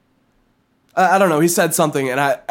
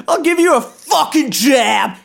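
mock angry dad; 8 semitones higher than usual. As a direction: bark it like a fed-up dad. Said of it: "That's like what my dad would say".

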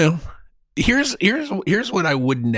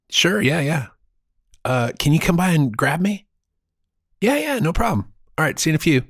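frat bro; 3 semitones higher than usual. Retold or imitated. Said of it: "this is me pre-ninety-five".

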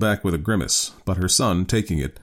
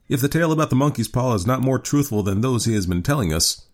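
put-on higher-pitched young Herbert figure; lightly scoffing son, pitched up; 7 semitones higher than usual. A narrator's reading.

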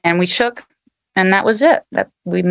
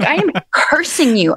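higher, mock-dramatic curse with am stretched; hammed-up curse; 6 semitones higher than usual. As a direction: replay I am cursing you as a laughing mock hex. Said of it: "I was like".

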